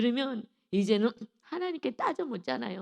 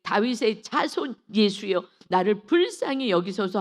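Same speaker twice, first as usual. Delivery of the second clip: crying out; 6 dB louder than usual. Acted. Blind man calls out to Jesus for mercy, crying out. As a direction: call out for mercy, drawing out the words. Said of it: "막 큰 소리로 외쳐 이르되".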